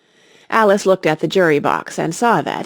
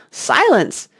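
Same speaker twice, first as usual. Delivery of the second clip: cackled out; 7 semitones higher than usual. Acted. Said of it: "cackled out".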